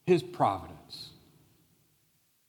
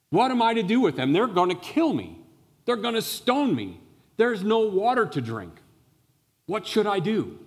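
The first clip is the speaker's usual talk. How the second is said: much higher, louder and faster, panicking; freaked-out Moses; 9 semitones higher, 4 dB louder than usual. Acted. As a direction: Moses frantically pleading with God, at his wits' end. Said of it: "is freaked out".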